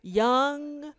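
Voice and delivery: slow, deliberate article read-aloud; measured, stretched-out reading delivery. Real, not acted. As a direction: draw the phrases out as you read. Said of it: "transition to my reading voice".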